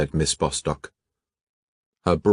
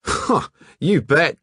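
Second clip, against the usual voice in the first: Australian lad voice; 12 semitones higher, 5 dB louder, slower than usual. Acted. Hatchett's drawling Australian reply.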